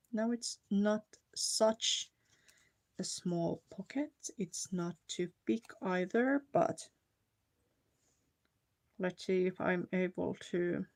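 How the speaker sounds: talking around a pin in mouth; speaking with a pin between lips. Real, not acted. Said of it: "I have a pin in my mouth. That's why I sound like".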